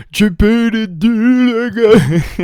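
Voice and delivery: high, loud burst of hype; hammed-up fan yelling; mock excited shout. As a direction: blurt it out in over-the-top excitement. Mock excited reaction to announcement.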